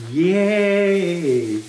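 loud, high yay; excited cheer. Real, not acted. Cheering during story.

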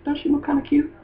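high, coaxing girly imitation; Lyra. Matchmaker trying to hook them up, high mock coaxing. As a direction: nudge him in a small, high put-on voice. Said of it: "she was trying to hook 'em up like".

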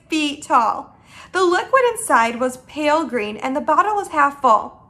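animated read-aloud storytelling; lilting storybook reading; story narration. A narrator's reading. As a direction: narrate to children with lively emphasis.

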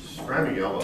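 Stramiello said with an "-ello" ending; correct pronunciation. Shown as a demonstration. Correcting the questioner on the family name, Stramiello pronounced with "-ello". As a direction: end Stramiello in "ello", like "yellow". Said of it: "is the pronunciation".

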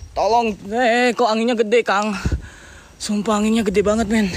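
winded from the uphill climb; out of breath. Real, not acted. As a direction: talk while still panting. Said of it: "Sorry, gua ngos-ngosan jalan ke sininya nanjak".

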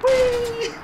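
high gleeful whoop; excited. Real, not acted. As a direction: squeal with glee. Joyful cry in game.

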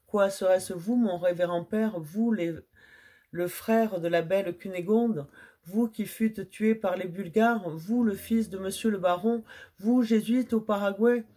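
astonished. Acted. Tearful reunion, astonished questions.

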